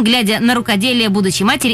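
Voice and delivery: usual speaking voice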